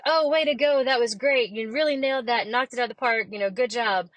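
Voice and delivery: cheery inner ego. Retold or imitated. Inner ego congratulating you, hammed-up cheerful praise. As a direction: gush like a cheerleader in your head. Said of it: "how many times a day does your ego say".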